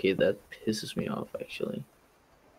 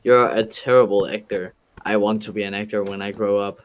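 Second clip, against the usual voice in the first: mimicking friend, loud then quick; mocking quote; 6 dB louder than usual. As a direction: throw the friend's words back mockingly. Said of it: "I'm just like".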